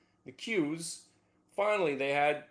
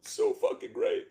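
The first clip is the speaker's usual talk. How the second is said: much higher, slow, choked-up rapture; half-joking emotional swoon; emotional moment. Real, not acted. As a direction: let it catch in your throat with joy. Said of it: "I'm having an emotional moment now".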